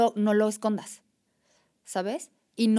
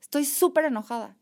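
loud, much higher venting yell; angry outburst; 7 semitones higher, 9 dB louder than usual. Retold or imitated. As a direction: let the anger out in one big burst. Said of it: "me meto al baño y digo".

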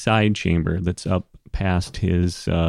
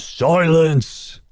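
high, raised shout; loud booming command; 9 semitones higher, 3 dB louder than usual. Acted. King Dorgold silencing the clan chiefs, loud command. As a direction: bellow for order over the crowd. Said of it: "loud sound that kind of, you know, reverberates".

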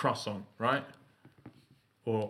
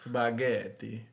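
slow Italian spaghetti; much slower than usual. Shown as a demonstration. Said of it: "You have to do it with the Italian hand".

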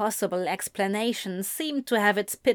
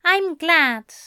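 high, loud deadpan; dry, pointed angel; deadpanned; 8 semitones higher, 5 dB louder than usual. A narrator's reading. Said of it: "Aziraphale deadpanned".

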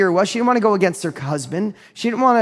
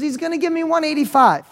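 higher-pitched mock elation; imitated delight; 9 semitones higher than usual. Widow thrilled to get her asking price, imitated delight. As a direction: play the overjoyed seller, pitched up.

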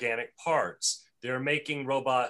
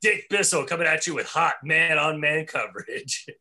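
sportscaster voice; 4 dB louder than usual. Pretend. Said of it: "He's a sportscaster for pornos".

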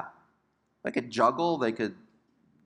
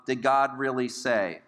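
slow, understated questioning; subtle insinuation. Acted. Father of lies begins his attack, slow subtle question. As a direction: plant the doubt subtly, taking your time. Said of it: "kind of a subtle".

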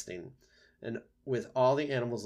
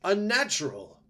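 high, loud, drawn-out disgust; owl screech; 10 semitones higher, 10 dB louder than usual. A narrator's reading. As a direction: stretch out the screeched accusation. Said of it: "screeched the owl from the very top".

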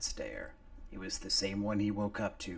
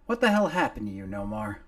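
fast, higher, louder outburst; startled gruff voice; 3 semitones higher, 10 dB louder, faster than usual. Acted. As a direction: blurt it out in shock. McGrady startled.

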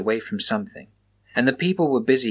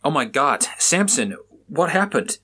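sharp shout, pitched higher; 4 semitones higher than usual. Acted. Officer shouting at bloodied Samson, alarmed shout. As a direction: call out in alarm at the bloodied boy. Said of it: "Raymond shouted".

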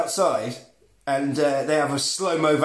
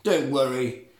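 slow, lowered, imitated vampire disdain; sassy vampire; 4 semitones lower, 4 dB quieter, much slower than usual. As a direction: draw it out in mock-haughty sass. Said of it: "And he just sasses her".

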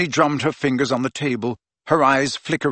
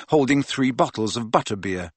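plain reading voice

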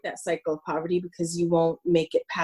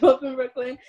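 laughing; 4 semitones higher, faster than usual. Real, not acted. Laughs while correcting interviewer.

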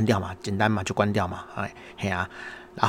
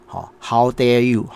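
mock outrage; 4 dB louder, much slower than usual. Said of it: "我心里想说".

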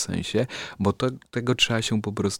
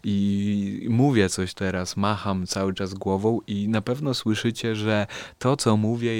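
head swaying off mic. Shown as a demonstration. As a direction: voice drifting on and off mic. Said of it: "będę sobie machał się i mówię coś".

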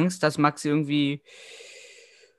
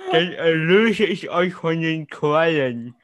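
talking with a clothespin in the mouth; slower than usual. Real, not acted. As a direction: say it with a clothespin clamped between the lips. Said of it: "hast du eine Wäscheklammer im Mund".

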